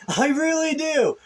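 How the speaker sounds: laughing while talking. Real, not acted. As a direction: chuckle through the words. Laughs at his own jab.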